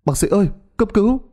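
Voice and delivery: high, fast, frantic cry for help; husband frantically calling the doctor; panicked call. Acted. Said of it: "Chú Hải hớt hải gọi".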